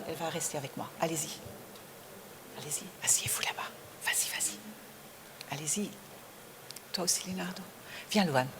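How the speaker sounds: very soft, off-mic instructions; hushed aside. Real, not acted. Host tells children where to sit, in a hushed aside. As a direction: usher them along under your breath.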